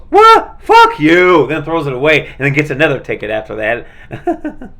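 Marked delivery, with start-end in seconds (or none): 0.1-0.6 a sudden squeal of disbelief, much higher and louder; outraged what. Retold or imitated. Guy reading his cussing ticket, squealed outraged what. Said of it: "looks at the ticket and goes". 0.6-1.5 louder, higher cuss thrown out; angry retort. Retold or imitated. Guy reacting to his cussing ticket, mock angry shout. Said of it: "looks at the ticket and goes".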